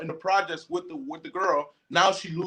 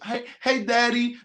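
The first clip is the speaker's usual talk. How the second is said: higher-pitched come-on to a man; sexy flirting; 5 semitones higher than usual. Acted. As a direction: lightly act out a seductive greeting. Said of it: "That's the sexiness".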